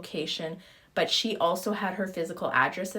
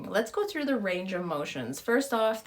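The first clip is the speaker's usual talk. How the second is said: normal talking voice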